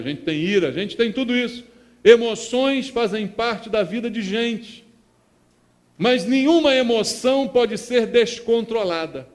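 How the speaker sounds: loud proclamation of the Psalm; a pastor booming Scripture from the pulpit; preaching at full force. Acted. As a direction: declare the verse to the church. Preacher builds to his climax.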